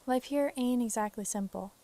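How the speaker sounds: lightly voiced Southern farm wife; Southern accent. Farm wife telling her story, Southern accent. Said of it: "literally do a Southern accent".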